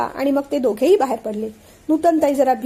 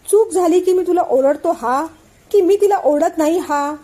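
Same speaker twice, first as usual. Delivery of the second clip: slow, higher, stern questioning; stern challenge; 4 semitones higher, 4 dB louder than usual. Acted. Father confronts Shirish over his complaint, slow and stern. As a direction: pin him down slowly and firmly.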